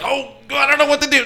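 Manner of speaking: high-pitched, flustered helpless husband; mock panicked dithering; helpless fretting. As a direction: fret as if at a total loss. Retells Bill at a loss.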